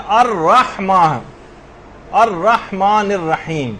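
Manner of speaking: slow, drawn-out الرحمن الرحیم with a clear throaty ح; careful Quranic pronunciation. Shown as a demonstration. Teacher models the verse for students, careful recitation. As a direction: articulate الرحمن الرحیم slowly and precisely. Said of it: "خاص طور پر اس بات کا خیال کرنا ہے".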